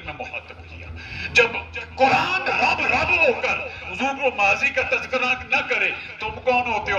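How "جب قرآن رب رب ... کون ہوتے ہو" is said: fiery rebuke. Real, not acted. Preacher rebukes disrespectful speech.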